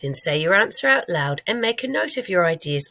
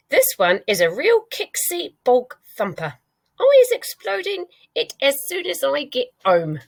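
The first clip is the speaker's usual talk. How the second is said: higher, slowing giant's voice; a hint of a worried giant; 7 semitones higher than usual. A narrator's reading. Giant telling Sophie his plan, lightly voiced. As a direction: fret then vow firmly. Giant vowing to destroy dream.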